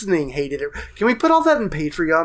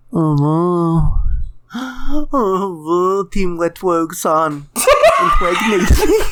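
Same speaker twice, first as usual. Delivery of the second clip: slow, laughing mock uwu baby voice; uwu impression; 3 dB louder, much slower than usual. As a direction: break into laughs while doing uwu. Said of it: "I'm still gonna do it".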